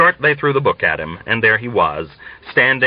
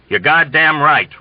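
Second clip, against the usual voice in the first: slow, loud, higher bark; roar; 6 semitones higher, 4 dB louder than usual. Acted. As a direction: roar it at the cadet. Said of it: "roared the colonel".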